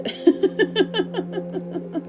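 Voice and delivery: high playful evil cackle; evil laugh. Real, not acted. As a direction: cackle like a cartoon villain. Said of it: "That was my evil laugh".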